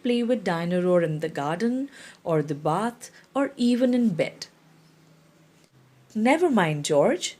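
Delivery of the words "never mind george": cheerful, mildly bright comfort; brightly. Acted. Mother comforting her sad son, lightly bright. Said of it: "says Mummy Pig brightly".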